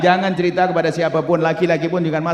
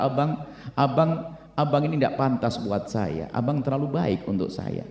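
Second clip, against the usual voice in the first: humble confession; 2 semitones lower, 5 dB quieter, slower than usual. Acted. Wife's humble plea to husband.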